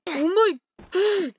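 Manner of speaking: drawn-out mock exclamation. Quoting himself, drawn-out exclamation. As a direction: stretch it out, acting out your reaction. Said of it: "that's what I basically said".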